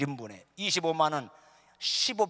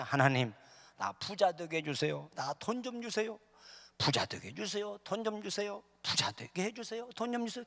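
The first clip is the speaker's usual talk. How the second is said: repetitive imploring, growing higher and softer; pleading prayer; 4 semitones higher, 3 dB quieter than usual. Acted. Poor man begging God for money, acted pleading prayer. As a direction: beg over and over, thinly and softly.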